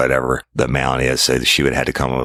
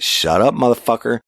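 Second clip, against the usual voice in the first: a sharp, raised retold yell; retold angry shout; 9 semitones higher than usual. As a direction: snap him into silence. Silencing the suspect's denial.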